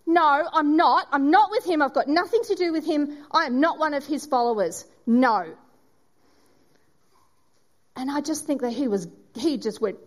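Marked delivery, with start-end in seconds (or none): 0.1-5.5 louder, heated, protesting too much; defensive denial. Acted. Peter denying he knows Jesus, loud and defensive. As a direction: push the accusation away hard.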